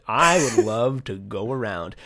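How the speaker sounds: lightly amused, dreamy declaration; laughing wish. Retold or imitated. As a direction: chuckle through a pretend wish. Voices pirate happy to roam.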